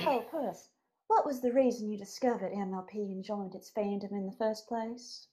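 lightly put-on voice; character voice. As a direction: read it in a silly voice. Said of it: "I can do some voices".

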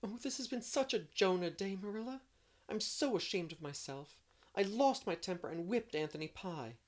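sobbing. A narrator's reading. Anne confessing her bad day to Marilla, sobbing. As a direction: pour out the shame between sobs. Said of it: "sobbed Anne".

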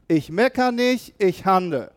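calling the slogan out loud to the congregation; loud call-and-response. Shown as a demonstration. Pastor leading the congregation in a loud declaration. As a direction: lead the room in the declaration. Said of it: "das darfst du jetzt ganz laut aussprechen".

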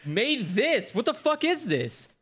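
mock gamer outrage; exasperated outburst. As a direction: yell it in disbelief at the game. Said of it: "And you're like".

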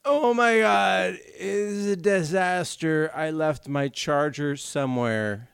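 imitated complaint. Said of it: "The speaker started the podcast with".

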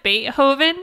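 Beethoven as Bait-hoven, high and questioning; incredulous high-pitched Bait-hoven; mimicked British pronunciation. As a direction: query Beethoven with a sounded H. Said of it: "Does everyone in England pronounce".

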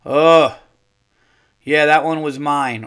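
loud, drawn-out "oh"; loud exclamation. Retold or imitated. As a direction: blurt it out loudly. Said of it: "I hear the big lady go".

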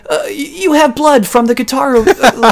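high, squeaky mock voice of the talking dog. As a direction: rattle it off like a silly cartoon dog. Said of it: "the dog, is just like".

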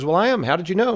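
high-pitched acted surprise; lightly startled question; mock shock. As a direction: play the astonished man, voice lifted. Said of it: "the man looks shocked".

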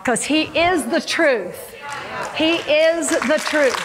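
slow declaration, leaning hard on "is"; deliberate preaching emphasis on "is"; emphatic proclamation. Real, not acted. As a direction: proclaim it with a stretched, stressed "is". Preacher repeats climactic declaration.

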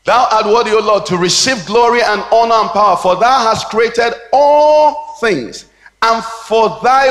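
emphatic scripture recitation. Acted. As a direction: proclaim it from the pulpit, stretching the big words. Recites verse forcefully.

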